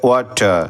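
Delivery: ওয়াটার said as waa-taa with no r; British ওয়াটার, final r dropped; teacher models non-rhotic ওয়াটার; silent r. Shown as a demonstration. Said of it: "আর এর উচ্চারণটা silent থাকবে".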